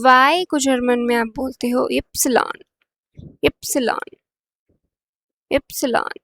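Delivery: इप्सिलॉन said as ip-si-lon, stress on the first syllable; German letter name. Shown as a demonstration. Teacher models इप्सिलॉन for the class, careful letter name. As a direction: spell out इप्सिलॉन clearly as ip-si-lon for learners. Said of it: "आपको repeat कर रही हूँ और आप मेरे पीछे repeat करिए".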